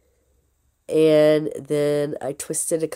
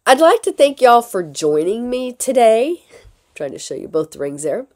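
hoarse from a cold; sick voice; 5 semitones higher, 3 dB louder than usual. Real, not acted. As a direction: speak through a lingering illness. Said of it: "apologize for my sick voice".

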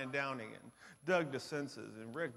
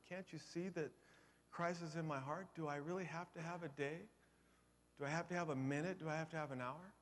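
pleading tearfully; 3 semitones higher, 6 dB quieter than usual. Retold or imitated. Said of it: "she started crying".

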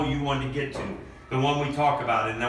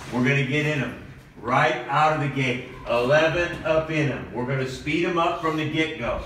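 pep talk; 3 semitones higher than usual. Acted. Coach fires up team.

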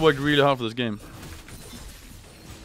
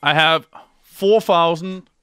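awed boast; 6 semitones higher, 7 dB louder, much slower than usual. Real, not acted. Boasting about health.

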